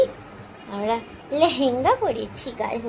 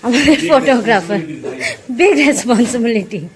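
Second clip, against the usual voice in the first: excited introduction; 7 semitones higher, 12 dB louder than usual. Real, not acted. Loudly introducing the photographer.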